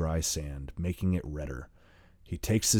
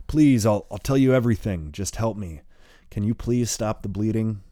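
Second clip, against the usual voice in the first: louder, higher desperate rush; desperate plea; 3 semitones higher, 5 dB louder than usual. Acted. Bleeding boy begging Merle to stop the bleeding, desperate. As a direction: beg for help before it's too late.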